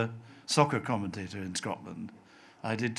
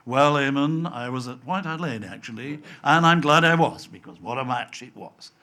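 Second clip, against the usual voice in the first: on-air reply; 2 semitones higher, 8 dB louder than usual. Retold or imitated. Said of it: "I remember saying".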